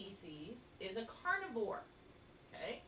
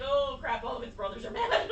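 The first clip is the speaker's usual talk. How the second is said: mock alarmed baby; 8 dB louder than usual. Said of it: "then he's like".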